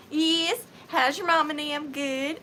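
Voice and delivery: Southern small-town chitchat; thicker Southern accent. Acted. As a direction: answer in a neighborly Southern twang. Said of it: "they get more Southern".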